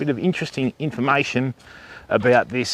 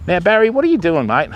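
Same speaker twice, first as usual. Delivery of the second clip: pet talk; 5 semitones higher than usual. Real, not acted. Talking to Barry the cockatoo.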